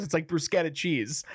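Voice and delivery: bruschetta said with a hard SK; butchered name. Retold or imitated. She justifies butchering his name, bruschetta with a hard k. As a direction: say bruschetta as "brus-KET-a". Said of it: "butchering his name".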